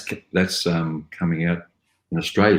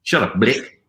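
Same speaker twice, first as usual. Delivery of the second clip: put-on South African accent; 4 semitones higher, 3 dB louder, slower than usual. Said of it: "Blick is South African".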